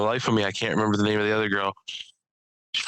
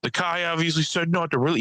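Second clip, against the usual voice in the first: higher-pitched imitation of a ranter; retold rant; 6 semitones higher than usual. Comedian imitating the ranting man on stage, worked-up rant. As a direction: imitate a guy launching into a rant. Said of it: "rant about something".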